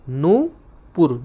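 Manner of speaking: नूपुर with a long drawn नू; long nu stretched out. Shown as a demonstration. Teacher drawing out नू for students. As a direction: stretch the नू slowly. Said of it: "नू बड़ी मात्रा".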